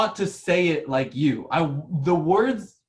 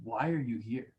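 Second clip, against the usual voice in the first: how it sounds; 7 semitones lower, 10 dB quieter than usual. Retold or imitated. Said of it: "But it sounds like".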